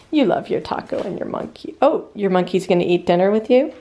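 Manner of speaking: sweet talk to a little dog; pet talk. Real, not acted. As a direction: coo at the puppy. Talking sweetly to her dog.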